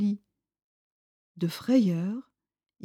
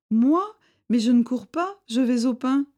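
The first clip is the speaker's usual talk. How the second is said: higher, louder flustered denial; nervous denial; 5 semitones higher, 5 dB louder than usual. A narrator's reading. Frightened Bardot denies running to Mesto, higher. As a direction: caught out, protesting too much.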